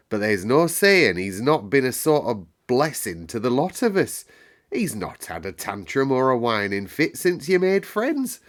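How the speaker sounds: broad country dialect, lifted pitch; gossipy moorland dialect; attempted dialect accent. Maid reporting household gossip in country dialect. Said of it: "I can't do that accent tonight".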